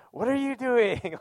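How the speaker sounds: high, slow mock baby wail; outraged baby nephew. Preacher imitating his bottle-robbed nephew in a high baby wail. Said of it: "he was freaking out. He's like".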